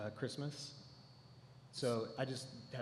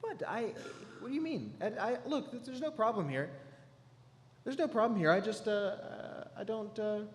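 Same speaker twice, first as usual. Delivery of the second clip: panicked; 6 semitones higher than usual. Acted. Panicked denial.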